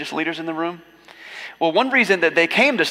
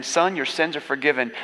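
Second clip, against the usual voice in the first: offhand; 4 dB quieter than usual. Retold or imitated. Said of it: "all willy-nilly like".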